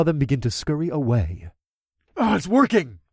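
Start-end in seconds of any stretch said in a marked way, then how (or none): 2.2-3.0 higher, pleased exclamation; grinning delight. A narrator's reading. Hero sees the hounds scurry away, delighted. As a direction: exclaim it through a grin. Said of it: "I grinned".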